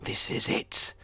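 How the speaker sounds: mock intense, half-whispered self-talk; mirror pep talk. Talking to the mirror, mock intense resolve. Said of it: "We look in the mirror".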